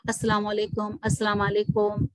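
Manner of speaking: "السلام علیکم" ending in a drawn "-kom"; o in place of u. Shown as a demonstration. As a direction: round the last vowel of "علیکم" to o. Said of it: "تو یہ غلط ہے". ("علیکم" میں پیش کو او پڑھنا)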